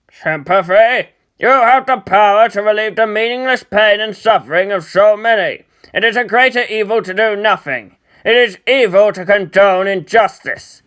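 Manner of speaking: loud, heated, righteous protest; indignant retort. Acted. Shinji retorts to Kaoru, loud and indignant. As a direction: throw the word back and build the fury.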